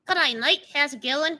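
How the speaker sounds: lightly put-on Australian accent. Shown as a demonstration. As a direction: try a mild Australian accent. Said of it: "It sounds like a, um, Australian".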